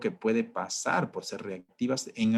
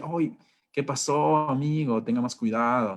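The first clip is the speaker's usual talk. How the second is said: mock calm; 2 semitones higher, 3 dB louder than usual. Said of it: "una persona tranquila y feliz".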